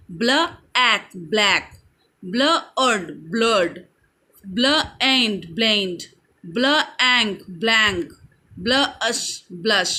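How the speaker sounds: ब्ल, a gap, the ending, then the whole word as in ब्लैक; teacher's measured word-building from ब्ल; sounding out blends. Shown as a demonstration. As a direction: phonics drill, split ब्लश into ब्ल and अश, then join. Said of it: "बी एल blend हुआ".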